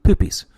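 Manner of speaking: Poopies high and loud, flicked upward; questioning lilt on Poopies. Shown as a demonstration. Repeating the silly name for fun, Poopies pitched high. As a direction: punch out Poopies with a high lift. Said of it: "keep saying it like that".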